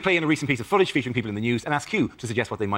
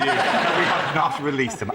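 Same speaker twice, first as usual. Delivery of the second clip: weary officer; slower than usual. Retold or imitated. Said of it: "with the weary tone of a man".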